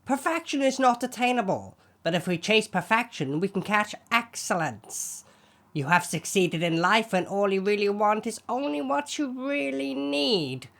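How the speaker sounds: measured, grand inspirational reading; eloquent recital. Pretend. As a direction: recite like a wise orator. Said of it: "let's see your attempts at being as eloquent".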